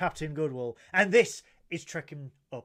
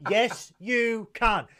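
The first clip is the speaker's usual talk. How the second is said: loud, slow, higher insistence; insistent; 6 semitones higher, 7 dB louder, much slower than usual. Real, not acted. Host overruling his co-host's modesty, loud and drawn out. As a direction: drag it out to overrule her.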